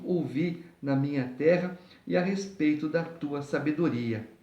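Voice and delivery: measured, deliberate Bible reading; scripture reading. Acted. Preacher reading the chapter to listeners, formal scripture reading. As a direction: read the chapter aloud in careful phrases.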